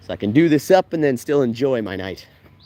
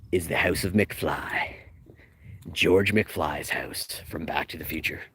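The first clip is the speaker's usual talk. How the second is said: whispering; 7 semitones lower, 7 dB quieter than usual. Acted. Whispered reveal, unvoiced.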